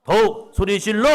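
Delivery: full loud rallying shout. Shown as a demonstration. Preacher leading the congregation, a loud shout. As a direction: shout it with the whole room. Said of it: "시작".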